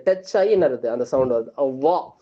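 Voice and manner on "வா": வா as a heavy, rounded sound filling the mouth; full-mouthed sound. Shown as a demonstration. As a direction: fill the mouth on வா, tongue touching behind the teeth. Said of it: "வாய் நிறைய வரணும்".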